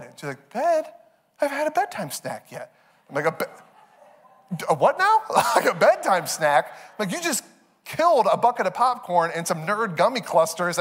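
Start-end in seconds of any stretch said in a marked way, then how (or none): 0.5-2.7 put-on high-pitched indignant kid; protesting child. Daughter to dad at bedtime, high indignant protest. 3.3-6.7 incredulous. Retold or imitated. Dad incredulous at snack request.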